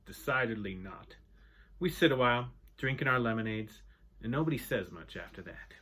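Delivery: steady read-aloud narration for a class; story narration. A narrator's reading. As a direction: read the chapter to the students, voicing the old men lightly. Reading a novel chapter aloud.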